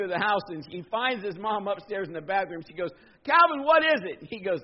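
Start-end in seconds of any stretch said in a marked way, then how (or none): 3.2-4.3 loud, high mock-exasperated reply; raised-voice impatient mother; exasperated mom. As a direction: answer a yelling child, fed up. Acted mom answering her yelling son.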